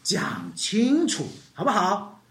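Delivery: put-on a mother calmly explains to her child why she scolds; patient explaining. Shown as a demonstration. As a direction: talk it through calmly with the child. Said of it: "他应该跟我说".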